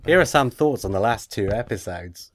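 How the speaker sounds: hammed-up Aussie email greeting; Australian accent. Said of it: "try his Australian accent again".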